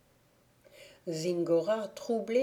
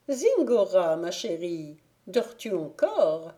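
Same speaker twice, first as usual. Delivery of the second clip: calling out; 5 dB louder than usual. Acted. Fairy calls out again.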